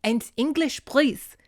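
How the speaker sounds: lightly imitating a prodding dad; stern dad voice. Dad interrupting daughter talking to horse, mock stern. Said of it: "her dad comes up behind her and is like".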